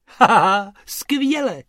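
high laughing "skvěle"; chuckle, then cheer it; laughing delight. Acted. Narrator laughs with delight at the good news.

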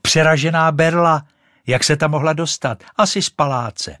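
high, loud excited shout; "přeražená berla" shouted high and loud; a boy loudly marvelling; boy's shout. A narrator's reading. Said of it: "vykřikl jeden ten klouček".

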